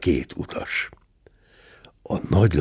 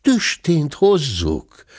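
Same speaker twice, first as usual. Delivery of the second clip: slow, obliging reply with a smile; innkeeper's amused courtesy; smiling compliance. Acted. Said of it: "mosolygott a vendéglős".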